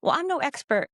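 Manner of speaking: mock unsure disclaimers; overqualifying. Shown as a demonstration. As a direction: hedge each phrase apologetically.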